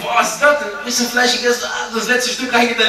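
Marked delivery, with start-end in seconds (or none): 0.0-0.8 high, loud astonished cry; full guest astonished by more dishes; mock astonishment. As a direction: exaggerate the guest's shock. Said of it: "Ich hab gesagt".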